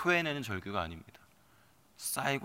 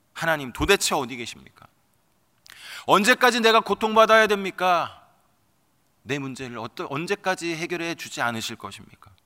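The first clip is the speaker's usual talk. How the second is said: higher and louder, demanding answers; raised, desperate lament; anguished outcry; 6 semitones higher, 9 dB louder than usual. Acted. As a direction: hurl the questions at heaven. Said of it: "라고 하는 절규를".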